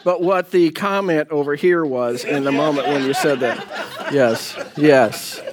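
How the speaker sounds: laughing through the words; trying not to laugh while talking; holding back laughter. Real, not acted. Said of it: "I'm trying not to laugh right now".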